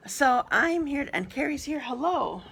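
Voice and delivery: talking with a dry mouth. Real, not acted. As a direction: speak through a parched mouth. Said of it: "Sorry, my mouth is dry already".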